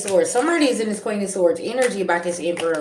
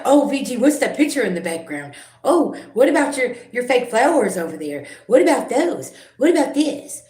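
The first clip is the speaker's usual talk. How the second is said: high, louder mock-nosy viewer voice; 6 semitones higher, 4 dB louder than usual. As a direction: parody the prying commenters, much higher. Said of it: "That's like".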